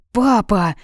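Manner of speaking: mildly shocked, embarrassed daughter; gasped. A narrator's reading. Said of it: "ахнула Ника".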